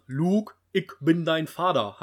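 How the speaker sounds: slow, loud mock Berlin dialect; comedian's Berlin-accent imitation. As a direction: do the quote in broad Berlinerisch. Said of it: "Dann eben auf Berlinerisch".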